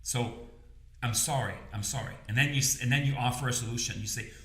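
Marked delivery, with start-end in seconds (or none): 1.0-2.1 softer repeated sorry, trailing off; a quiet, humble sorry; soft apology. Shown as a demonstration. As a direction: gently soothe them with sorry. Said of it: "You cannot say sorry enough".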